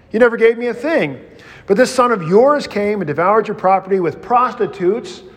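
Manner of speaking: fast, high-pitched accusation; older son blaming his father, bitter. Acted. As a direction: hurl it at your father quickly.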